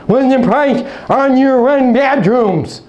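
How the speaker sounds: high, slow, nagging repeated questions; mock pushy caller. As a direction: whine the price questions like an impatient caller. Caller mimicked repeating price questions.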